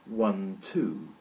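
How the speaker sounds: One, two counted slowly like beats; counting out syllables. Shown as a demonstration. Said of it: "this verb has two syllables".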